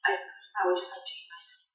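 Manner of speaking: low, very soft plea; subdued, low-voiced captain wanting peace; reluctant diner. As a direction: protest quietly and haltingly. Disturbed captain wants to be left.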